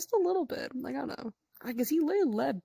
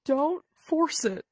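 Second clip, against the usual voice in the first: higher, slow mock scolding of a friend; mock Frenny scolding; 4 semitones higher, 4 dB louder, slower than usual. Friend mock-quoting Frenny telling Bonfi to stop. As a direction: hold her back like a stern big sister, half-joking.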